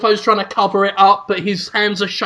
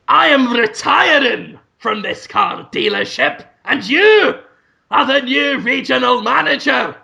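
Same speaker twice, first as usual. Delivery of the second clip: higher, grandly announced farewell; Brendan Fraser; 5 semitones higher than usual. Acted. Retiring boss hands over the dealership, grand announcing voice. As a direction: declare it like a pompous departing boss. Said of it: "Brendan Fraser says".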